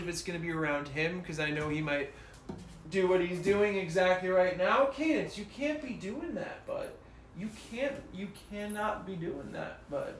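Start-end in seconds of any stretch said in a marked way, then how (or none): 4.9-10.1 scolding the dog. Real, not acted. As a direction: tell the puppy off like a patient owner. Scolding his dog mid-stream.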